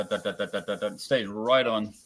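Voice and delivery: usual speaking voice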